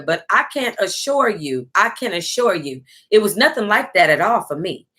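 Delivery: steady storytelling read of a memoir; reading a book aloud. Acted. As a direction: read the chapter out to the viewers. Reads a book aloud on stream.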